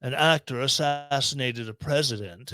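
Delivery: a hint of a put-on British accent; lightly posh British Johnny Depp impression; fake British accent. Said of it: "In my fake British accent".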